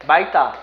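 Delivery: 맑다 said loudly as 말따; ㄹ reading. Shown as a demonstration. Teacher quizzing students with option one, 맑다 clearly said as 말따. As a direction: keep the ㄹ in 맑다, tense the 따. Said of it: "이거 어떻게 읽을까요?".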